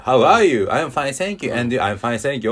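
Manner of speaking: lightly imitated upbeat English teacher, loud opening; a hint of a carrying classroom call-and-response; Mickey. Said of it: "通るいい声をなさっててですね".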